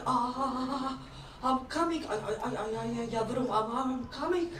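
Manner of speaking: stuttering mock climax, belly-dance style; Turkish orgasm. Acting a Turkish lover for the audience, stuttering climax. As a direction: stammer out a lightly hammed climax. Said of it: "they can have an orgasm like this".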